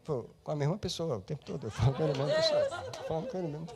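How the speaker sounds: laughing while answering. Real, not acted. Preacher laughing as he retells his reply. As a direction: chuckle through the answer.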